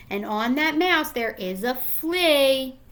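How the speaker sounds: put-on gentle storybook read-aloud to young kids; reading to children. Rereading the page aloud.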